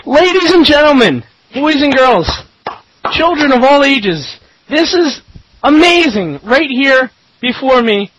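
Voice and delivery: booming slow showman announcement; ringmaster. Pretend. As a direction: roll it out like a circus ringmaster. Grand circus-style opening of show.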